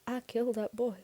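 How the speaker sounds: said slowly. A narrator's reading. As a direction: confess it word by word. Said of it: "he said slowly".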